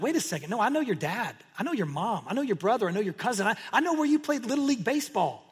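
acted indignant disbelief, pitch climbing as it goes; indignant uproar. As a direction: play a miffed hometown crowd calling him out. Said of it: "They're all in a roar, an uproar".

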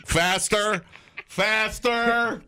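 high excited urging; urgent urging. Pretend. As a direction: push them on, rising. Acting lab testers.

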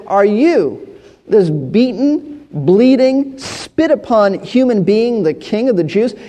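a touch of scornful disbelief; mildly mocking, slow in places; ridicule. Pilate ridicules the beaten prisoner, lightly scornful. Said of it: "It's a question of ridicule".

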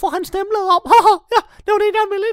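squeaky high, loud wizard with giggles; a cackling little wizard bursting in; Louis Fox voice. Acted. Wizard Louis Fox crashing the break-in, squeaky high giggling.

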